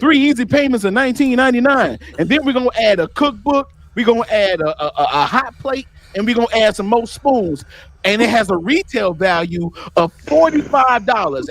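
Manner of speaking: upbeat salesman hyping a bargain; infomercial pitch voice. Retold or imitated. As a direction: pitch it like a late-night TV ad. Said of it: "You ever seen those infomercials?".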